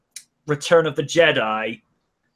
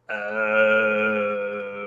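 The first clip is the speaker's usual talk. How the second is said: dawning realisation; 7 semitones lower than usual. Retold or imitated. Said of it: "you're like".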